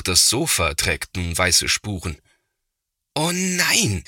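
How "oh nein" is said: high, exasperated "oh no"; scolding groan. A narrator's reading. Big brother seeing the sofa, scolding in dismay. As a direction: scold at the mess. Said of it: "schimpft Thomas".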